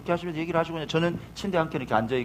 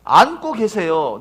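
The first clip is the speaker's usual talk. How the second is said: slow emphasis; 4 semitones higher, 8 dB louder, much slower than usual. Real, not acted. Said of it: "slow emphasis".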